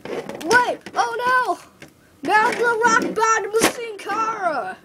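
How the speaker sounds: loud, high winner announcement; ring announcer shouting. Pretend. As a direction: boom out the champion's name.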